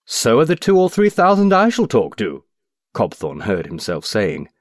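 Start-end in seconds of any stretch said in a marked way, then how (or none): 0.1-2.4 much higher and louder, an indignant outburst; blurted retort. Acted. Cobthorne blurting back at the stranger, high indignant outburst. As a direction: burst out before you can stop yourself.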